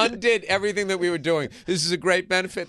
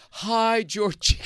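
higher, gentle mock-tender hi; sensitive greeting; 6 semitones higher, much slower than usual. Host playing his sensitive side, in a mock-tender hello. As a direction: fake a tender, caring hello. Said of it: "This is the way he said it".

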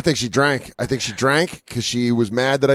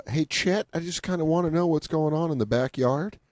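Tom Hanks impression; 4 semitones higher than usual. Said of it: "he was like".

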